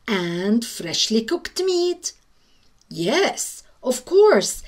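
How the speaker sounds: a lightly voiced, self-satisfied cat savouring each luxury; smug cat. Cat eyeing the Sultan's palace, smug and dreamy. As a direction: linger over the comforts like a greedy cat.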